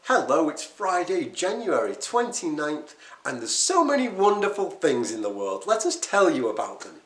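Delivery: mock sunny news greeting; cheerful newsreader. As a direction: play a chirpy morning news host with good news. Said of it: "the news never says".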